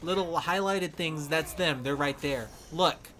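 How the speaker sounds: loud, urgent mock callout to teammates; calling out to the team. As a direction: point the enemy out to the squad, loud. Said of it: "that'll be like".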